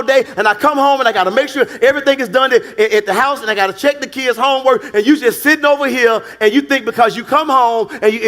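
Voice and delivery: a preacher voicing a weary wife's plea. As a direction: plead as the tired, drained wife. Preacher voicing a drained wife.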